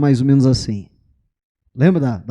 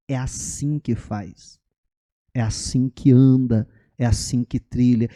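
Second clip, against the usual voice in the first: mostrando com calma; 4 semitones lower than usual. Shown as a demonstration. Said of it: "Não, não, ó".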